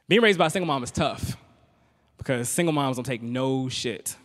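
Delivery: normal talking voice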